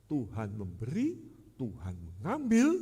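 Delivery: slow, sneering sing-song with each phrase rising at the end; slow sarcastic taunt; mocking. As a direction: toy with memberi and mengambil, lifting both mockingly. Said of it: "dengan kalimat ejekan".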